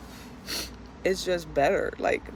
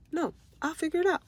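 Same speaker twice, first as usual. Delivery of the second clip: 1 defiant retort; 9 semitones higher, faster than usual. Retold or imitated. Retort to doubters, sharp.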